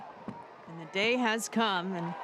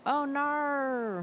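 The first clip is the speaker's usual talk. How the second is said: higher, drawn-out Australian "nar" for no; playful Australian accent impression; 6 semitones higher than usual. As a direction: mimic an Australian saying no. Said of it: "I always like an Australian accent".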